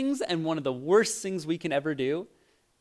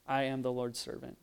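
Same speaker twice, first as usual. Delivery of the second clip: quiet devotional repeat; 7 dB quieter than usual. Shown as a demonstration.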